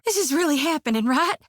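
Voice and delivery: fast, high, giddy rush; can't believe it just happened; breathless disbelief. Acted. Priestess reeling after seeing Gon, fast giddy disbelief. Aftermath of meeting her god.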